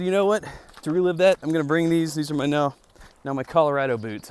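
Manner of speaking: high, loud excited outburst; wild unhinged ranting. Retold or imitated. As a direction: blurt it out, fired up. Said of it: "I just said".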